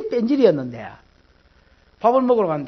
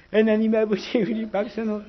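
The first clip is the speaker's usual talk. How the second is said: prayer tone; 4 dB quieter than usual. Retold or imitated. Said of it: "기도 톤이 있어요".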